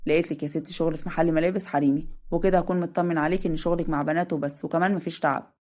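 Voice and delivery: easygoing older man, lightly voiced; lightly voiced Adham.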